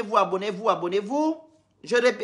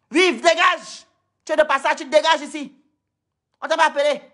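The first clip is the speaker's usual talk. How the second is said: higher and louder, telling the intruder to get lost; angry dismissal; 5 semitones higher, 3 dB louder than usual. Real, not acted. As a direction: shove him out with your voice. Chasse un intrus du live. (renvoyer avec colère)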